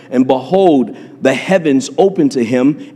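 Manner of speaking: usual speaking voice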